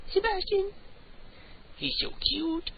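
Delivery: very high sing-song pet voice. Real, not acted. Host coaxing his cat to meow, high baby talk. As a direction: coo up high at the kitty.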